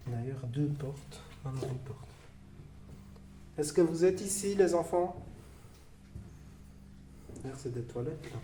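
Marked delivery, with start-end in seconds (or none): 3.6-5.2 calling out. Acted. Appelle les enfants-esprits.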